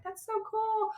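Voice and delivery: high, exaggerated mouthing; mouthed praise. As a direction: mouth it big through a window. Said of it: "they'd mouth it with their mouth".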